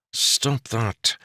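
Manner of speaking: a mildly irritated command; annoyed order. A narrator's reading. Jester scolding the lovestruck Jarek, mildly annoyed. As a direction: snap him out of it, only lightly. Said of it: "Topaz ordered with annoyance".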